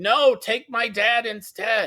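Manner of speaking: put-on loud, high, drawn-out child's scream at full voice. Telling a story, the speaker acts out his son screaming: imitating a child screaming. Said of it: "my son starts screaming".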